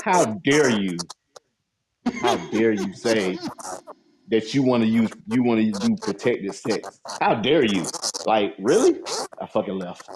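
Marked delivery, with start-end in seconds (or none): 0.0-9.0 slow, theatrical how dare you; mock indignation. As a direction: drag it out, offended. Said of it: "I'm like".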